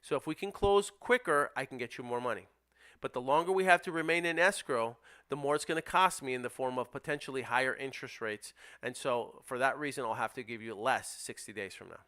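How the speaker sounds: steady, reasoning pitch; calm explanation to seller. Shown as a demonstration. Investor explaining time versus money to the sellers. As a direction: lay out the trade calmly. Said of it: "that's how you handle it".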